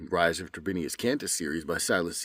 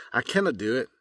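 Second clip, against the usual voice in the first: Scottish accent; 5 semitones higher, faster than usual. Shown as a demonstration. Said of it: "Now as if I'm Scottish".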